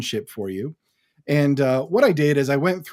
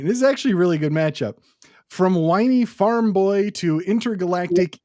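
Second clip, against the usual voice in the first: ring announcer voice; 3 semitones higher than usual. Pretend. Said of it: "my ring announcer voice going here".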